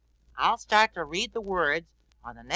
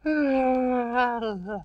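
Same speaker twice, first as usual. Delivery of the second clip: tired yawn; 2 semitones higher than usual. Acted. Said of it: "He yawned".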